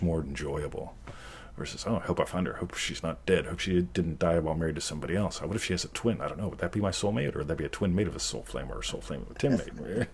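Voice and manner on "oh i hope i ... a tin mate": soft, running-on mock fretting; mock worried rambling. Acting out someone fretting over a soulmate, mock worried rambling. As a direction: ramble through the worries in an undertone.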